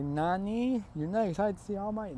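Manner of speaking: high-pitched mock-anime shock; shocked disbelief. Classmates cannot believe the lack of excitement, shocked.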